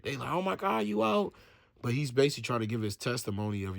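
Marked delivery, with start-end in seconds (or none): 0.3-1.3 higher-pitched mock amazement; retold excited exclamation, pitched up; excited disbelief. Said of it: "they're just excited".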